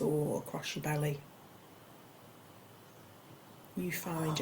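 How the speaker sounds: unhurried yoga nidra guidance with long pauses; guided meditation. Acted. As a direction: gently settle listeners into a comfortable position.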